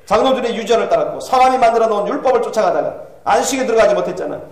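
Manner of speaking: lightly voiced tormented soul's reproach; insistent, agitated questioning from hell; Calvin rebuking. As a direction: challenge the listeners with growing urgency. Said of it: "얘기하는 걸 듣습니다".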